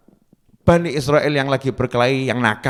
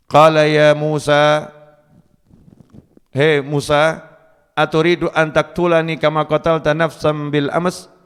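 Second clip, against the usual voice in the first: frightened cry. Retold or imitated. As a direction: cry out to Musa like a man afraid for his life. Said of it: "dia teriak".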